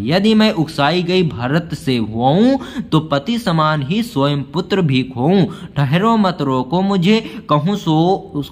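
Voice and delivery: slow, measured recital of Hindi verse; poem recital. Acted. Teacher reciting the poem extract to students, slow recital. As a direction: let each line of the poem land slowly.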